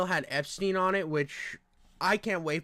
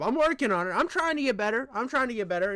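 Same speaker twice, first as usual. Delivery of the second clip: Trump impression; 4 semitones higher, faster than usual. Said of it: "That's all I can do for Trump".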